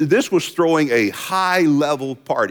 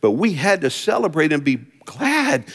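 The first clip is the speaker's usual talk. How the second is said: gentle father. Retold or imitated. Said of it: "the father's response".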